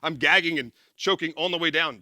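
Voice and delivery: normal talking voice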